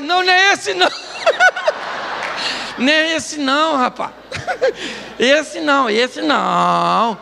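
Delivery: lightly acted objectors waving someone off; hint of comic naysayers; mock protest. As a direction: draw out the last words in mock protest. Mock bystanders protesting at the man.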